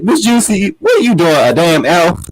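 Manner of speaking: high mock indignation, dropping at the end; Nene imitation. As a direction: lightly mimic a comic put-down. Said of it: "And Nene said".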